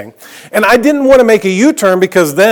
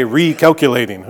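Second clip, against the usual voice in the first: attempted British GPS voice, lower pitched; half-hearted British accent, low announcement; bad British accent; 5 semitones lower than usual. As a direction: imitate a British sat-nav, not very well. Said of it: "I can't do a British accent".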